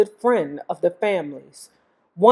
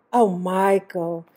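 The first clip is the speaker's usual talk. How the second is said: cooing; slower than usual. Acted. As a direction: coo his name lovingly. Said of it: "she cooed".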